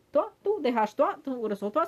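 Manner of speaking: high, loud mock telling-off; retold angry shout. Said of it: "c'est ce qu'elle dit".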